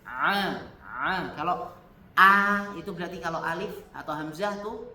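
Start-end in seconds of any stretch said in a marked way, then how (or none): 0.1-0.6 "A" said louder, pressed hard in the throat; pressed ain. Shown as a demonstration. Teacher showing that ain is pressed. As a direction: push "A" with force from the throat.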